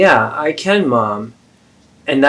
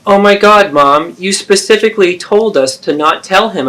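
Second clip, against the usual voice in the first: exasperated outburst; 8 semitones higher, 5 dB louder than usual. Acted. Exasperated protest in argument.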